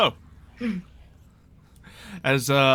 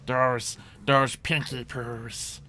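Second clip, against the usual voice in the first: goblin chief; 4 semitones higher than usual. Acted. Goblin chief pleads with Jugs not to crush Tommy, fretful.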